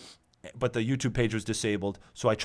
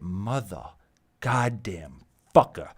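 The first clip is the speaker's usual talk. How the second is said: slow, louder, dragged-out curse; fed-up curse; 3 semitones lower, 3 dB louder, slower than usual. Real, not acted. Cursing at the YouTube settings, slow and louder. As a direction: grind the curse out slowly.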